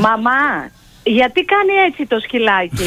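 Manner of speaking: put-on slow, puzzled child's question, only hinted; lightly voiced little daughter. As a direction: quote your small child asking innocently, drawn out. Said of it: "η κόρη μου ... κάθε φορά μου λέει". (ελαφριά μίμηση μικρής κόρης που ρωτά αργά με απορία)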